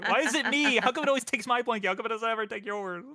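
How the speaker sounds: high, loud whining protest; loud, high wailing complaint with laughter; laughing protest. Real, not acted. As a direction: wail at the unfairness, half laughing.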